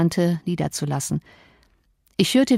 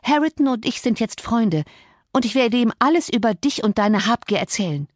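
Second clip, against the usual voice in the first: slightly higher voice for a provoking Cathy; defiant young woman, lightly voiced; 4 semitones higher than usual. Cathy threatens to tell Harrington everything, lightly defiant. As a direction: taunt him with a touch of triumph.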